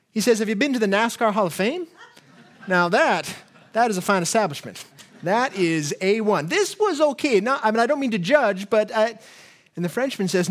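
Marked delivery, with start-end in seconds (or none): 0.4-9.2 opinionated Texan tourist. Acted. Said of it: "the guy from Texas says".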